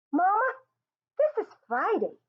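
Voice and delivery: put-on high, bright-eyed boy's cry of joy; a kid thrilled it's Friday, voice jumping up; gleeful. A narrator's reading. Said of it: "he says gleefully".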